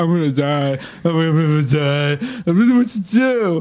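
high, slow, mock-tearful, freaked-out dread. Retelling a panicked drug experience, imitating own crying panic. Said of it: "I'm crying".

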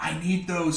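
loud stage whisper. Voicing a character leaving the party, asking for war weapons: loud whisper. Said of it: "he's whispering loudly".

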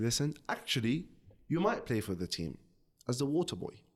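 plain

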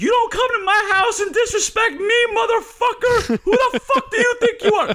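very high, shrill screeching rant, close to crying. Retelling yelling at a guy he was beating up, screeching like a girl. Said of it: "I can hear that I'm like screeching like a girl".

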